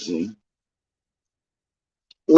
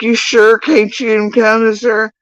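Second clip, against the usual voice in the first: mock pleading; 11 semitones higher, 4 dB louder than usual. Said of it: "They're like".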